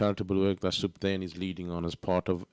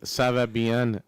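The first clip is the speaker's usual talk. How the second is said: put-on playful French phrase in accent; lightly put-on French accent; much slower than usual. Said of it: "you can't beat the French accent".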